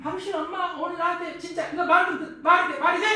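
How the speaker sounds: acted indignant complaint, building in volume; worked-up wife. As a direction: protest hotly as an offended wife. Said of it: "지금 열받았다는 얘기입니다".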